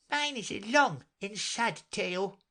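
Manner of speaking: high, mournful mouse voice; sighing mouse. A narrator's reading. Mouse turning to Alice about its history, sighing. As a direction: sigh it out in a high character voice. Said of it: "turning to Alice and sighing".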